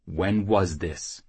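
slow, controlled question; menacing interrogation. Acted. Jackal interrogating the whoremaster, slow menacing question. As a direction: draw the question out, giving nothing away.

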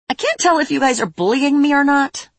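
high-pitched pouty character voice; pouting. A narrator's reading. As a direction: whine it through puffed cheeks. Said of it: "and puffed out her cheeks".

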